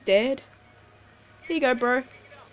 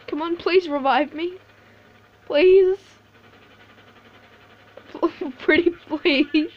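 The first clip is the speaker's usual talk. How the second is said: mock begging; 3 semitones higher than usual. Real, not acted. Begging teammate to revive.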